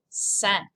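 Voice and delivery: "cinq" said slowly with a nasal vowel. Shown as a demonstration. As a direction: model "cinq" with the vowel up in the nose. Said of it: "it's a nasal sound".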